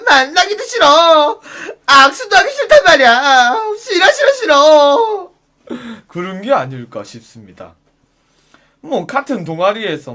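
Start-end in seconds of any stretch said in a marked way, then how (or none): 0.1-5.3 half-laughing, half-sobbing mock whine; whiny disgust. Wailing no at the pushy club guy. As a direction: whimper no over and over like a spoilt child. Whining refusal.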